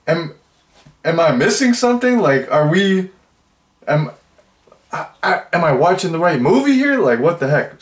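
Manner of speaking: high, loud, fast incredulous questions; can't believe what you just watched; disbelief. Real, not acted. Vlogger baffled by the movie scene, high and loud disbelief.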